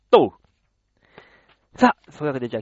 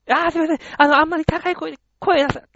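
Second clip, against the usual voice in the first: higher voice, pleading a little; quieter fan lady; 9 semitones higher, faster than usual. Retold or imitated. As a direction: shush her while signing, voice still raised. (小声で頼むおばさん風の声)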